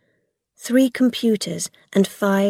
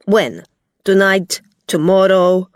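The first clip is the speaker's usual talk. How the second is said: a touch of angry, louder questions; angry Gog; 6 dB louder than usual. A narrator's reading. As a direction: snap the questions at her. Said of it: "Gog said angrily".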